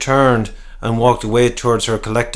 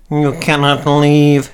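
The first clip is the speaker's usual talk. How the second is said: higher, slow desperate plea; anguished appeal to stay; pleading cry; 4 semitones higher, slower than usual. Acted. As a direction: beg her not to go. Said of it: "he cried".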